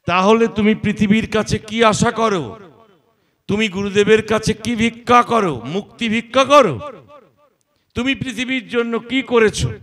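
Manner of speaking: challenging questions. Acted. Preacher confronting devotees, loud pointed questions. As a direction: demand an answer from the crowd.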